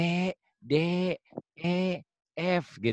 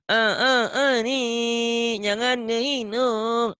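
mock scolding; 6 semitones higher, slower than usual.

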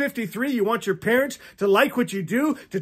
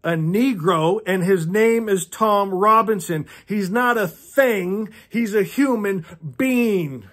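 sighing Atticus. Acted. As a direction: explain it tiredly like a patient father. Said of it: "Atticus sighs".

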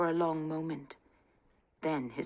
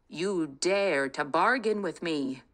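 thundered; 4 dB louder than usual. Acted. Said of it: "thundered the king".

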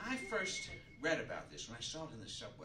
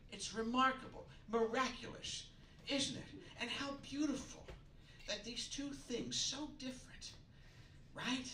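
grand marvelling; 10 semitones higher than usual. Acted.

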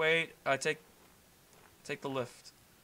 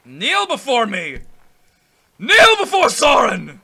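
cold rasping evil emperor; 6 semitones higher, 12 dB louder than usual. Pretend. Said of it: "my Liam Neeson impersonation, which is terrible".

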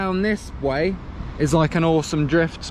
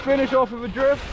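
excited whoop; 13 semitones higher, slower than usual. Real, not acted. Whooping at the end of the run.

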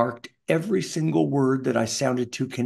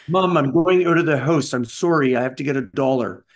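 put-on Canadian accent; 4 dB louder than usual. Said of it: "how Canadian I sounded".

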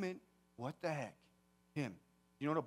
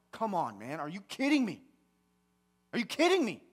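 retold anger; 3 semitones higher, 5 dB louder, faster than usual. Grieving son in his car venting at God, angry and rising. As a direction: build from disbelief to a raised, fed-up voice. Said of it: "And I was so mad".

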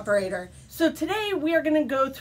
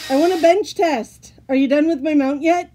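whiny nagging; 3 semitones higher, 5 dB louder than usual. Acted. Nagging, higher and louder.

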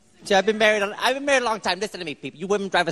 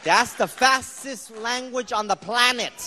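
emphatic claim; 2 semitones higher, slower than usual. Real, not acted. Emphatic claim about Tagalog.

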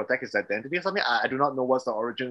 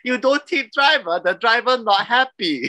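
imitating a New York tour guide's Asian accent, higher, louder and slow; 9 semitones higher, 5 dB louder, slower than usual. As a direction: ham up the Chinese tour guide, high, loud and slow. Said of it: "the tour guide was like".

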